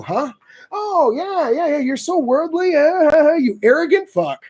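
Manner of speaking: sarcastic praise to the buddy who got scammed. Retold or imitated. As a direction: lay the sarcasm on thick. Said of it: "sarcastic praise to buddy".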